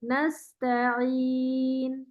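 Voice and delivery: نَسْتَعِين slow, ت kept thin not heavy; don't thicken the ت in نَسْتَعِين. Shown as a demonstration. Teacher corrects heavy ta, slow and light. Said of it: "تا نہیں موٹا کریں گے".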